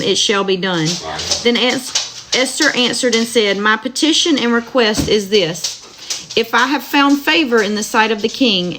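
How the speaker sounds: steady, measured Bible reading aloud; scripture reading. Acted. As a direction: read the verses evenly to listeners. Rereads the passage.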